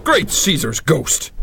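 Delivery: slow, stunned outcry; startled exclamation. Acted. Detective shocked at the rocket pack, stunned outcry. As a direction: gasp it out at the sight.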